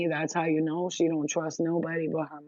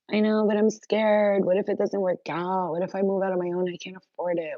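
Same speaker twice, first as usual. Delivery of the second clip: mock scared; 4 semitones higher than usual. Viewer voiced as a scared kid, mock worried whine. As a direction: voice the viewer's anxious doubt. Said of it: "I know you wanna be like".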